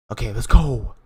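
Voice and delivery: loud, pumped-up "let's go"; excited cheer. Real, not acted. Fan watching the penalty shootout, excited cheer. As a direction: cheer it on loudly.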